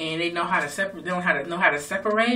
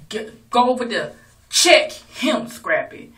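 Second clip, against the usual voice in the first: mock egging on; 6 semitones higher, 8 dB louder, slower than usual. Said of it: "she said".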